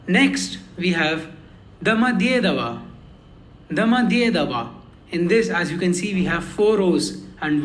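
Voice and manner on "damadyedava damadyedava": "damadyedava" with a long, strong "dye"; stress on ye. Shown as a demonstration. Teacher introducing the airport name, "dye" stressed in "damadyedava". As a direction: lean on "dye" in the middle of "damadyedava". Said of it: "Ye is the stressed one".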